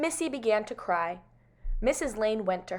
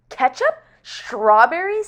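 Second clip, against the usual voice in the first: loud, high, incredulous questions; appalled disbelief; 4 semitones higher, 10 dB louder, slower than usual. Acted. Missus Lane hearing what baby ate, appalled. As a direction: echo each word in horror, drawing out the second. Horrified mother echoes in disbelief.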